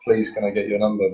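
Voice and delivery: mildly meek, pleading request; unconfident pleading. Shown as a demonstration. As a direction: plead a little, unsure of yourself. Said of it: "that tone of voice is".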